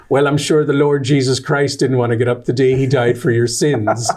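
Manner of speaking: put-on light Irish accent of a mother; a hint of an Irish mum's brogue. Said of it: "my mom would say in her Irish accent".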